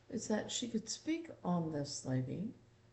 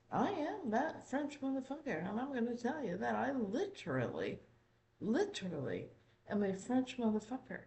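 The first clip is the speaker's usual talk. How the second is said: slightly French-tinged, higher and lilting at the start; lightly put-on French accent; a hint of mock French accent; 3 semitones higher than usual. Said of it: "this is her literal French, uh, accent".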